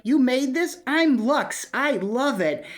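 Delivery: lightly acted, high excited quote; Lux. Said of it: "she's like".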